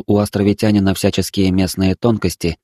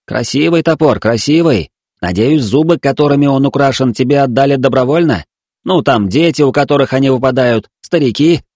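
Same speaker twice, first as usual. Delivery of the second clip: higher, sing-song coaxing; cooing to a child; 5 semitones higher, 3 dB louder than usual. Acted. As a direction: coo at her like at a toddler. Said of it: "старался ворковать". (воркуя, как с несмышлёным ребёнком)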